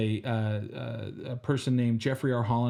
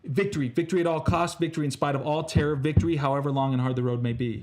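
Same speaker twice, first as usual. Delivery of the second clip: rousing speech; 2 semitones higher than usual. Acted. Motivational pep talk.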